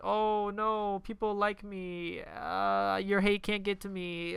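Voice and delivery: mock a corny, earnest character; mocking imitation. Mocking movie character's life lesson.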